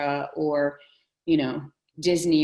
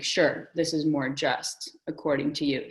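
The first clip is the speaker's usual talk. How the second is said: sarcastic. Retold or imitated. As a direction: drag it out with mock agreement.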